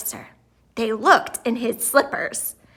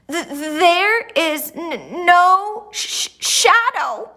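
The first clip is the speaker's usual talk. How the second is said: higher, stuttering frightened squeak; nervous squeak; 6 semitones higher, 4 dB louder, slower than usual. A narrator's reading. Nervous groundhog announces to the crowd, squeaking. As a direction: stammer it out in fright. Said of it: "he squeaked".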